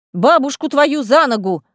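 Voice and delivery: exclaiming. Acted. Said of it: "выкрикнула она".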